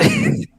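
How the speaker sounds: brief high-pitched chuckle; short laugh. Real, not acted. Host admitting a petty awards grudge, short laugh. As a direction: let out a quick high giggle.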